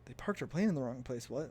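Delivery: incredulous echo of the news; stunned questioning repeat; disbelief. Retold or imitated. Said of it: "And I'm like".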